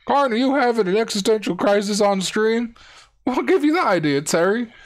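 sportscaster chatting on air; mock TV banter. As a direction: play both hosts trading lines. Talking to himself as Terry.

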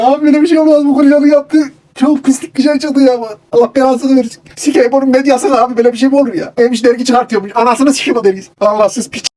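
high-pitched, loud cursing tirade; furious rant. Acted. The man curses Gürcan's media in a high, loud fury. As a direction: spit out the curses in a rage.

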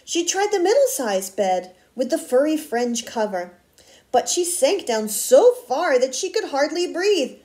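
put-on expressive read-aloud to children; story narration. A narrator's reading. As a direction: read a picture book with lively word emphasis. Reads a picture book aloud.

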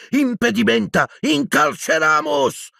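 high incantations, second drawn out; cried spells. Acted. Boy fighting the advancing dead, cried spells. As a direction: hurl the curses urgently.

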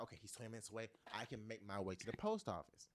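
soft, low planning to yourself; quiet inner voice. Retold or imitated. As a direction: murmur the plan under your breath. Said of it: "so I can be like".

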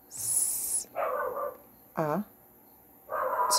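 S, A, T sounded one at a time; sounding out words. Shown as a demonstration. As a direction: sound out S, A, T slowly. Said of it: "Sound out the words with me".

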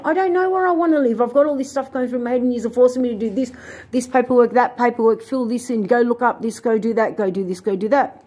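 high, fast, overwhelmed protest; frustrated outburst. Retold or imitated. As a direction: rattle off the demands in exasperation. Quoting her frustrated reply.

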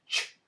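the sound "Ch" said alone and held; isolated phoneme. Shown as a demonstration. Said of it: "is one phoneme".

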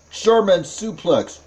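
mock German accent on a wrestling call; put-on German accent, punchy delivery. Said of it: "you can do a German accent".

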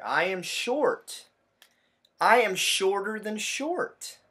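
proud little bug boasting; short bug boasting. Acted. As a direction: brag slowly and loudly like a tiny bug. Reading a bug's line.

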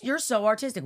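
lightly voiced doting parent; parental praise. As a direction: praise a little kid's artwork, lightly acted. Acts parents praising the child's art.

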